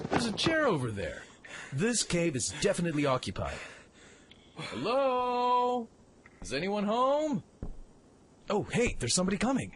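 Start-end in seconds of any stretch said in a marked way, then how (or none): 4.6-7.4 calling out. Acted. Calls into an empty cave.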